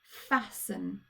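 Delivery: said clearly for dictation; careful spelling-test delivery; dictation word. Shown as a demonstration. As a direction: say it clearly so they can spell it. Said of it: "the word I want you to write down is the word".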